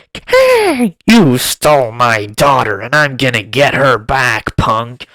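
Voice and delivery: Ant-Man yelling at Kang, hammed-up loud shout; mock hero yell. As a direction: bellow it like a cheesy action hero. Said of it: "He's like".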